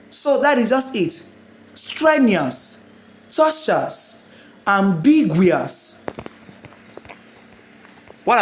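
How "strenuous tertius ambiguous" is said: "Strenuous, tertius, ambiguous" each punched on the stressed syllable; syllable stress demo. Shown as a demonstration. Teacher modelling word stress for learners, stressed syllables drawn out. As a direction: stretch the stressed syllable, let the rest fall. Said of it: "What is called syllable in tertius is tor".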